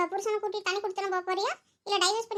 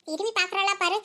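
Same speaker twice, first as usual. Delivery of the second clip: ordinary delivery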